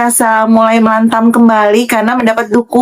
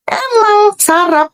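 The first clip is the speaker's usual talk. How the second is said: amused scoff; 9 semitones higher, much slower than usual. Real, not acted. Mocking after laughing.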